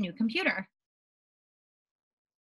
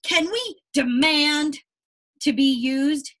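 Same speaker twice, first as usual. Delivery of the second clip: asking; 4 semitones higher, 6 dB louder, slower than usual. Acted. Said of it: "asked the crayons".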